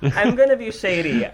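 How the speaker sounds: giggling through the words; laughing while talking, tipsy. Real, not acted.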